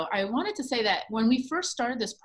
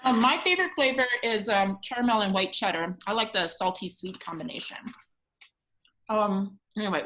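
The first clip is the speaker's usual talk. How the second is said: talking with a mouthful of popcorn; mouth full. Real, not acted. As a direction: speak through a mouth full of food. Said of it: "sorry for speaking with my mouth full".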